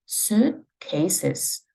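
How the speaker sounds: suitcases said as a single word; one word. Shown as a demonstration. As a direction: keep suitcases unbroken. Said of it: "suit 한 단어로".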